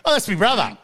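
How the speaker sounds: mock proud brother. Mimicking mate claiming brother.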